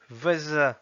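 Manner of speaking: "Vase" as Russian "vaza", falling; Russian pronunciation. Shown as a demonstration. Teacher reading words with learners, "Vase" as Russian "vaza". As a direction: read "Vase" in Russian with final A. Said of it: "s'entraîner à lire les mots".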